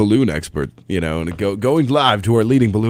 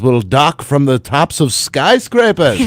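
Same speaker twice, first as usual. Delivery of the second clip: put-on old newsreel announcer; 4 semitones higher than usual. Old-time future prediction.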